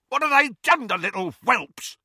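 high, frantic outcry; shrieked, panicked rage; anguished scream. A narrator's reading. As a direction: scream in fury and fear. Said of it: "he screamed".

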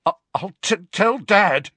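high, stammering whimper; scared boy's stuttering threat; frightened whimper. A narrator's reading. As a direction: whimper it out, tripping on the first words. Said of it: "Dudley whimpered".

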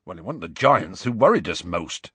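lightly voiced rustic storyteller; Hagrid continuing. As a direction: correct them in dialect.

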